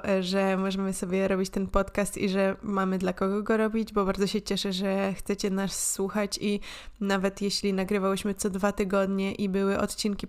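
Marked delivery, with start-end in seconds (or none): none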